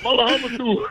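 high-pitched, laughing echo of the name; gleeful, through real laughter. Real, not acted. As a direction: repeat it while cracking up. Guest laughs along at nickname.

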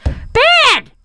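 high-pitched mock Brooklyn mother; Brooklyn accent. Mom answers her daughters' question, Brooklyn accent. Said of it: "She's got a Brooklyn accent".

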